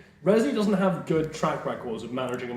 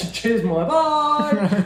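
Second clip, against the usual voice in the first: casual farewell; 8 semitones higher, 5 dB louder, much slower than usual. Retold or imitated. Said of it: "you're like".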